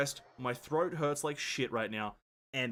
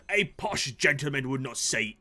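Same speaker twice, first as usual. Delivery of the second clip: lightly posh British. Pretend.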